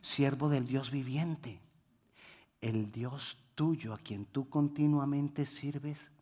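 soft, slow, sorrowful plea; a grieving king calling into the pit; sad voice. Acted. King calling sadly to Daniel in the den. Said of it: "Con voz triste le dijo".

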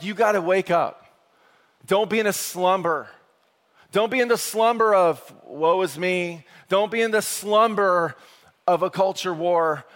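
high loud urgent plea; urgent exhortation. Retold or imitated. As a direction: rouse the sleepers. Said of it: "He's like".

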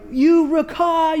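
angry insult. Retold or imitated. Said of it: "words are being said".

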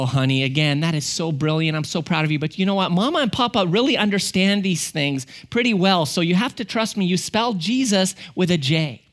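gently coaxing parent voice; imitated reassuring dad; patient father.

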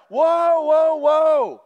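loud startled whoa, whoa, then a slow stunned that's crazy; shocked listeners. Retold or imitated. People hearing Jesus, loud shocked whoa. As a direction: stop them short, amazed. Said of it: "was like".

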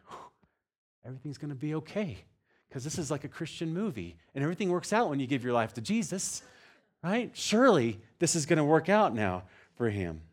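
hopeful thought. Retold or imitated. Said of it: "I'm thinking".

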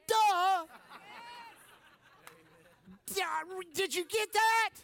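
loud, high teasing duh; a loud sarcastic duh; mock duh. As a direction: taunt them playfully. Mock taunt to congregation.

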